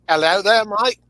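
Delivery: playful attempt at an Aussie greeting; Australian-accented ribbing; mock Australian accent. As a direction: put on a jokey Australian twang. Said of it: "I have no Australian accent, though".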